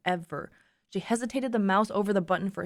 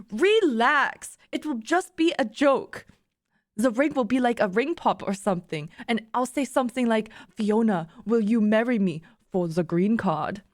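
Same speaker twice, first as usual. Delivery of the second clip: put-on imperfect German accent, explaining a joke; attempted German accent. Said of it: "I can't do a German accent".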